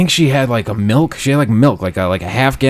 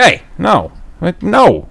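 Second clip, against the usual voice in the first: mock protest; 8 semitones higher, slower than usual. Retold telling lady to stop.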